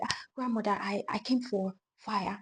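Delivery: put-on frightened girl begging the witch for fire; trembling girl. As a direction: beg meekly, almost afraid. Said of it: "trembling, she was like".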